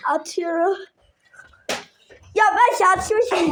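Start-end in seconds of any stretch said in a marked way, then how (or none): 2.3-3.5 slow words through laughter; laughing. Real, not acted. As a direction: laugh at your own luck. Laughs at own luck.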